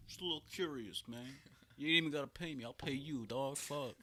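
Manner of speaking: high, coaxing put-on voice; mock propositioner. Friend pretends to bargain as the homeless man, mock pleading. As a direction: playfully plead as the rejected man.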